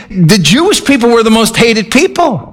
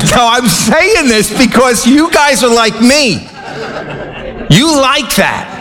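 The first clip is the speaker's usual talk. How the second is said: words through leftover laughter; laughing while talking; 3 semitones higher than usual. Real, not acted. Pastor teasing the congregation after his joke, laughing. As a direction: keep chuckling as you speak.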